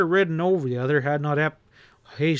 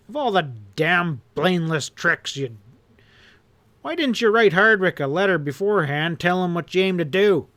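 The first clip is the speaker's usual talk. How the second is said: furious rant swelling louder to a shout; angry tirade; 3 semitones higher, 3 dB louder than usual. Acted. Boss berating his henchman, angry and rising. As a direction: tear into him, building. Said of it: "Hanlon roared".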